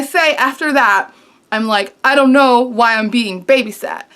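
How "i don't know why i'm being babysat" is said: a hammed-up indignant retort, slightly louder; mock-outraged version of the line; exaggerated snark. Shown as a demonstration. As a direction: say it the way you wish you had. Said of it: "I don't say it like that".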